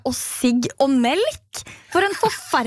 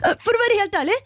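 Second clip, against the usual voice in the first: put-on higher, hesitant teen voice; a kid clumsily trying to save it; second boy backpedaling; 3 semitones higher than usual. The speaker voicing the second boy trying to fix it, lightly high. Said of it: "andre gutten prøve å redde".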